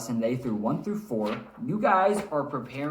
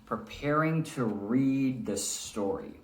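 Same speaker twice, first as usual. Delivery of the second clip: slow; slower than usual. Shown as a demonstration. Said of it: "we're reading with expression".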